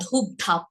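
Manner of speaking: ধূপধাপ with breathy aspirated ধ, not দুবদাপ; aspirated consonant demo. Shown as a demonstration. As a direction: puff the ধ in "ধূপধাপ". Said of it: "মহাপ্রাণ ধ্বনির উচ্চারণটা করতে হবে ধূপধাপ".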